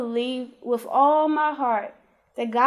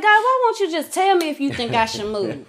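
higher-pitched exasperated plea to God; frustrated; 4 semitones higher than usual. Retold or imitated. Woman questioning God over whether to move, frustrated. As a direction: plead upward in mild frustration. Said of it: "I'm getting frustrated".

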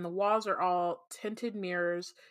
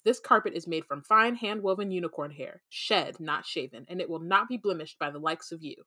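snooty voice. Acted. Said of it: "says the elevator in a snooty voice".

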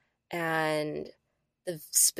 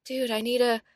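inner monologue; 6 semitones higher, faster than usual. Retold or imitated. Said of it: "this is dialogue in my head".

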